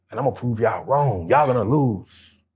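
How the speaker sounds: lightly voiced Butcher Brown taunt; menacing butcher. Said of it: "In my Butcher Brown voice".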